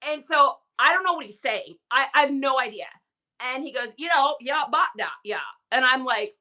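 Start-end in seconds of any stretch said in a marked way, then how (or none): 4.0-5.4 lightly mimicked Vermont mumbo-jumbo; imitated Vermont drawl. Wife retelling what husband's uncle said, garbled Vermont drawl. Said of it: "That's literally what he sounds like".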